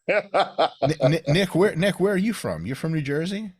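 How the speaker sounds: put-on a sketchy New Jersey accent, voice jumped high; New Jersey guy. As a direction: play a loud New Jersey Italian guy from New York, half laughing. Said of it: "a very well-developed Italian, New Jersey, New York guy impression".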